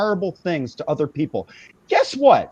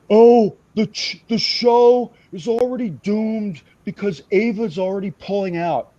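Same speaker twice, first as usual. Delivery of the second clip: mock know-it-all. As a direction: imitate someone pretending to be in the know. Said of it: "like, pretending that he knows something".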